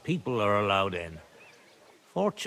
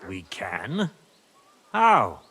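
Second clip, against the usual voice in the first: surprised; 4 semitones lower, slower than usual. Acted. Father startled when the squire asks his help, surprised. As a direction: caught off guard, then pressing.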